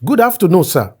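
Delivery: mock-polite eager greeting; lightly voiced over-respectful younger friend; reading a deferential message. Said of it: "Let me read how my friend approaches me".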